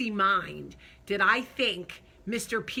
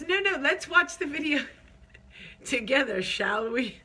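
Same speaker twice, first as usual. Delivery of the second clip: teasing husband voice; 6 semitones higher, 4 dB louder than usual. Retold or imitated.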